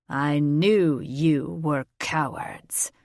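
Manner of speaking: low, slow scornful whisper; pitying whisper. A narrator's reading. Dragon king whispering his contempt to the smaller dragon, pitying. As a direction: breathe the insult out with pity. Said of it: "his tone changing from anger to pity".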